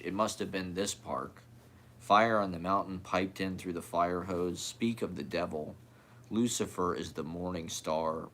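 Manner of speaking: measured, understated poem recital; poetry reading. Acted. Poet reading their own stuff to listeners, understated poetry-reading voice. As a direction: read it evenly, line by line, with pauses between.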